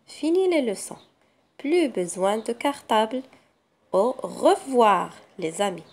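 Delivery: put-on clear, careful reading to young pupils; teacher reading a story to kids; read-aloud for children. Shown as a demonstration. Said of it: "Je commence la lecture auditive".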